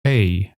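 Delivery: "a" said as the "ay" in "aim", slow; long a. Shown as a demonstration. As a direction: glide "a" into ay. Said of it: "as in aim".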